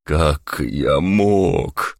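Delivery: slow, low groaning lament; barely audible groan. Acted. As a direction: moan it to yourself in dismay. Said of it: "еле слышно простонал сыщик".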